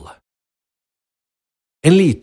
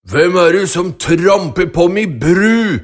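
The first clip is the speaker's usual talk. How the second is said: loud troll bellow; troll screaming; 3 semitones higher, 4 dB louder than usual. Acted. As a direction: roar it like an angry troll. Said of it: "skrek trollet".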